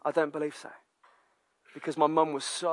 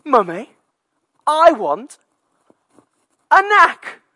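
much higher, much louder whining demand; toddler tantrum; 12 semitones higher, 14 dB louder, much slower than usual. Retold or imitated. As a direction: yell it like a furious toddler. Toddler tantrum after throwing cup.

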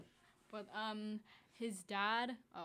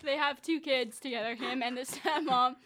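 laughing; 6 dB louder than usual. Real, not acted. Laughing hard, near tears.

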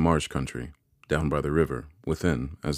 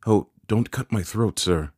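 high-pitched frightened plea; pleading in terror; 6 semitones higher, 3 dB louder than usual. A narrator's reading. Boy begs the convict for mercy, high terrified plea. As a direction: beg for your life. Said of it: "I pleaded in terror".

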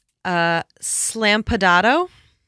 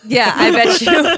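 knowing drawl; 6 semitones higher, 9 dB louder than usual. Real, not acted. Mock agreement about Keys.

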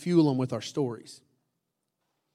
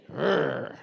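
low, softer playful growl; mock angry growl; 5 semitones lower, 4 dB quieter than usual. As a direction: give a short pretend-angry growl.

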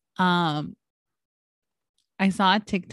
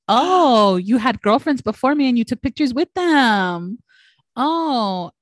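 mock jealous; 5 semitones higher than usual. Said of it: "I was like".

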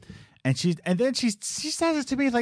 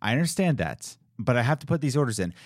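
in this tone; faster than usual. Shown as a demonstration. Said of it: "in this tone".

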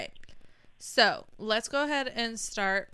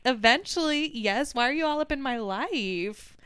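mock exasperation; 5 semitones higher, 5 dB louder than usual. Answering nosy kids.

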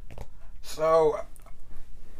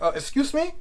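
mock startled reply, pitched high; imitated startled caller; caught off guard; 11 semitones higher than usual. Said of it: "and he was like".

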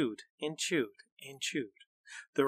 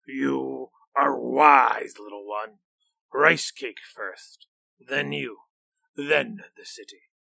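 slow, drawn-out monster voice; a greedy beast savouring; 5 dB louder than usual. Acted.

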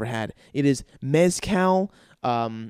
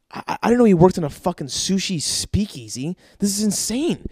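retold amazement, pitched up; astonished disbelief; 5 semitones higher than usual. Guest learning of the sushi speakeasy, in retold astonishment. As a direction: stammer into a higher, amazed exclamation.

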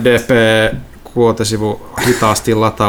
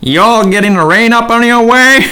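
redneck clerk; 9 semitones higher than usual. Acted. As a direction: play the jittery redneck at the counter. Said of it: "sä oot ihan punaniska".

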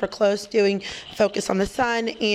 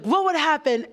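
imitated Brooklyn accent, pitched up; 6 semitones higher than usual. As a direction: quote him in a higher Brooklyn voice. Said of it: "in his Brooklyn accent".

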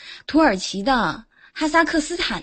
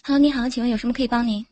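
customer service voice; faster than usual. Pretend. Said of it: "你来接一下".

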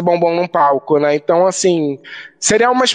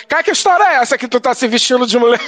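fast, higher-pitched mock interrogation; scolding mother; 6 semitones higher, faster than usual. Mother phoning about drag photo, mock scolding. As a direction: demand answers as an imitated mum. Mother's angry phone call, acted out.

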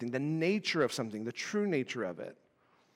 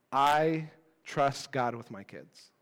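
slow, dutiful churchy answer; the right answer; slower than usual. Retold or imitated. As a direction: recite it like the answer you're supposed to give. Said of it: "the right answer".

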